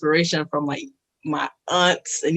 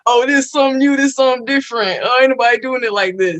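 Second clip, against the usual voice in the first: excited hype; 6 semitones higher, faster than usual. Retold or imitated. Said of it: "And then, like".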